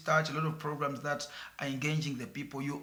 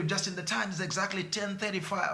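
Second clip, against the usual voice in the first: mock radio time announcement; 5 semitones higher than usual. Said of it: "but when he's on radio".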